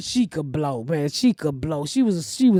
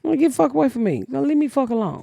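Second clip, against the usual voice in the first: playful get-lost, a bit higher; mock brush-off; 5 semitones higher than usual. Shown as a demonstration. Showing the hosts how she shoos people off, playfully. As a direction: toss it off like a joke. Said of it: "you do that so well".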